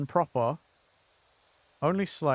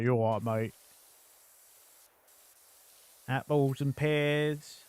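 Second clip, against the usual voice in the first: put-on Cockney accent. Voicing the Cockney character Dorian, light Cockney accent. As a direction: play a cheeky Cockney market trader. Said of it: "he was a Cockney".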